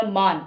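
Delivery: मान said firmly on its own with a long vowel; stressed syllable. Shown as a demonstration. Teacher isolates the last syllable, मान firmly stressed. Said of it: "यहाँ पे अलग बलाघात जा रहा है".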